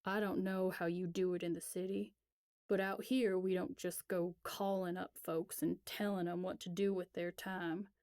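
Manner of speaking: stiff, offended country man; affronted. Acted. Elias scolding the city girl on the phone, affronted. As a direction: bristle at being told what to do. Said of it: "clearly affronted".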